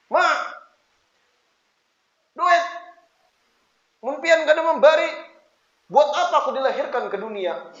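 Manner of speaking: put-on abrupt, high demand like a rude kid; cheeky, brash child demanding money; insolent. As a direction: order your mother to pay up. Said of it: "tapi songong".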